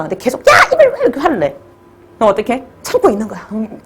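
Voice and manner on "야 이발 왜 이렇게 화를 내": higher, put-on voice snapping back; fed up, why are you so mad; exasperated boyfriend. Boyfriend pushed too far, snapping back at girlfriend.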